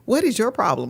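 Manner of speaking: lightly imitated child's scolding, emphatic; a touch of a small girl telling off her mother; chastising little daughter. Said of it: "she chastised me immediately".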